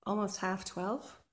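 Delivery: breathless after digging; winded, catching breath between words. Real, not acted. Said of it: "I'm out of breath".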